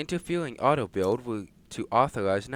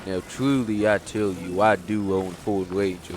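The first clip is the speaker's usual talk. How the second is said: cowboy voice; 3 semitones lower than usual. Acted. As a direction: talk like a laid-back truck owner. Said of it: "my voice changed a little bit".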